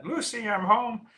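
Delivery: high, slow singsong call; mock sitcom husband calling out; catchphrase impression. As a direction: draw it out like a catchphrase.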